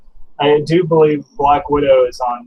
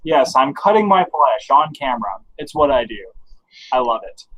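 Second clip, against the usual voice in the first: sarcastic. Real, not acted. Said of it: "you and your sarcasm".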